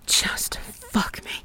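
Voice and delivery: slow, hushed plea; intimate whisper. Pretend. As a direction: whisper it slowly into the ear. Intimate scene, urging the listener.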